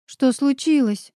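high, slow alarmed question; startled gasp at friend's tears. Acted. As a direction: catch your breath in shock. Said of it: "ахнула я".

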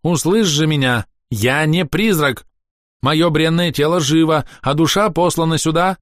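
desperate elf insisting he lives; pleading elf. A narrator's reading. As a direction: beg to be heard, slowly.

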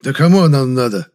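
a brother spitting out a retort; spiteful. Acted. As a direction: spit it out in spite. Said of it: "зло сплюнул и сказал".

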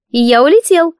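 high little voice of an air spirit; spirit's squeaky voice. A narrator's reading. Spirit explains his disguise in a high little voice. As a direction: explain earnestly as Siv.

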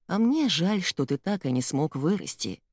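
ordinary delivery, nothing marked

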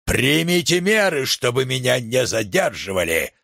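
usual speaking voice

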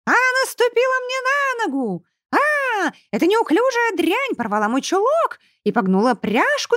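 very high whiny shriek, stretched out; shrieking spoiled girl. A narrator's reading. Chubby girl shrieking for her mother. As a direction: wail for mama like a spoiled brat. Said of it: "завизжала".

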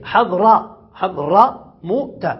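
حضرموت drawn out slowly, the fatha on حضر clear; slow demo. Shown as a demonstration. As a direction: stretch حضرموت out for the students. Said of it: "يبنى على الفتح". (نطق بطيء لحضرموت مع فتح حضر)

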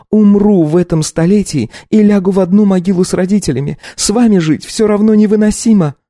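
high, heated outburst; worked-up wife. Acted. Furious wife tells husband she'd rather die. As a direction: she has lost all restraint. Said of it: "разошлась Катя не на шутку".

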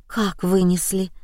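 quiet shocked question; shocked, going pale. Acted. Liza learns a body was carried out, quiet shock. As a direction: ask with the blood draining away. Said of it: "побелела Лиза".

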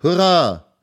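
high, loud joyful hurra; children cheering. Acted. The children cheering at Fritz's news, loud high hurra. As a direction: shout it like a crowd of happy kids. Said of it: "riefen die Kinder".

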